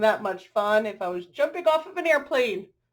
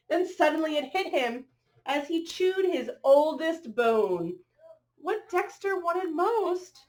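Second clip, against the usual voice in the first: bright, rhythmic picture-book read-aloud; reading to children; 3 semitones higher, slower than usual. A narrator's reading. Reading a rhyming dog story to children, lilting storyteller voice. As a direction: read the rhyme to the little ones.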